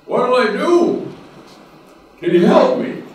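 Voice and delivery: high, loud desperate plea; a mock-frantic man clinging to a tree; pleading.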